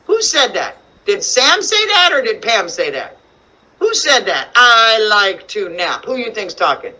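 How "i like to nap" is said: put-on slowed-down line from a children's book; slow story reading. Shown as a demonstration. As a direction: read the line slowly for children.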